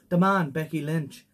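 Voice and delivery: toned-down attempt at an Irish accent; better Irish accent. Host retrying the wrestler's nickname, better Irish accent. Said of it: "I can do a much better one".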